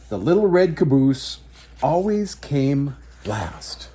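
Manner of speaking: put-on slow, gentle read-aloud for children; story narration. A narrator's reading. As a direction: tell it like a bedtime picture book. Reads picture book aloud.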